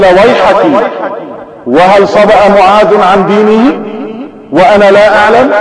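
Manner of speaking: put-on a startled old father protests; alarmed outburst. Old father hears his son changed faith, alarmed outburst.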